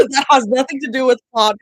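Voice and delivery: laughing loudly. Real, not acted. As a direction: say it laughing loud. Aside repeated laughing loudly.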